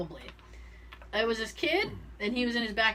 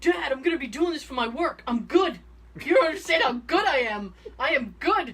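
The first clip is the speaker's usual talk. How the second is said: put-on boasting gamer kid, loud; 5 semitones higher, 5 dB louder than usual. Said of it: "he goes".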